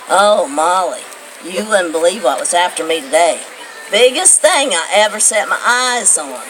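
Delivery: a hint of grandpa telling a tale; grandpa's voice. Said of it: "And he'd say".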